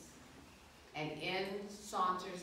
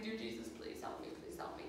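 soft unvoiced plea; whispered prayer; 10 dB quieter than usual. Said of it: "And I'm praying".

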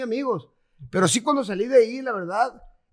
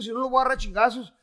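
fast threat, then a loud, higher yell to get out; louder, higher retold yell; retold furious shout; 4 semitones higher, 6 dB louder than usual. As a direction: yell at the guards as if held against your will. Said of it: "le dije".

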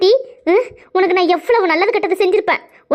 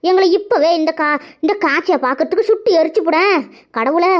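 wailing lament. Acted. Mother wailing to God that her son was lured away. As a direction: wail it out like a mourning mother.

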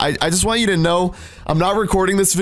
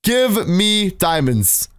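slow command; much slower than usual. Shown as a demonstration. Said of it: "you have to say it out loud".

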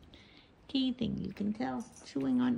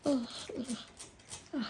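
yawning groans; 3 semitones higher, 4 dB quieter, faster than usual. Real, not acted. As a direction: let out a big tired yawn. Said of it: "I gotta stop yawning".

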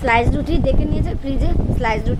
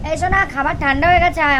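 calling out; 5 semitones higher than usual. Real, not acted. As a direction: call her in from the next room. Calling daughter to come eat.

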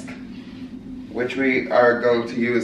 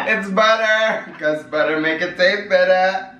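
laughing; 5 semitones higher than usual. Real, not acted. Laughing at partner's reaction.

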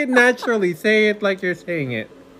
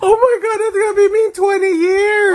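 higher, loud disbelief; shocked; 10 semitones higher, 4 dB louder than usual. Real, not acted. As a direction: react in horrified surprise. Son shocked at resemblance.

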